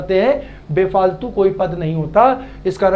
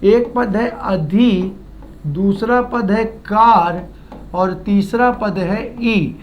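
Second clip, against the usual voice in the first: अधि, कार, ई each given slowly and separately; slow word breakdown; slower than usual. Shown as a demonstration. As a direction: lay out each part of the word slowly for students. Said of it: "यहाँ पर". (धीरे-धीरे हिस्से गिनाते हुए)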